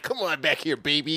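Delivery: lightly voiced come-on, pitched low; Judge Judy. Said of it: "Judge Judy was like".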